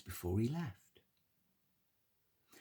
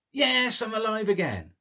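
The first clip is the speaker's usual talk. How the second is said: happy; 8 semitones higher, 4 dB louder than usual. Acted.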